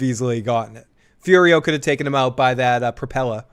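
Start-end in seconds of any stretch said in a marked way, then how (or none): 2.8-3.4 propeller in a Boston accent. Real, not acted. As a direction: propeller said with a dropped r, Boston style. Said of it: "That was my Boston accent just came out".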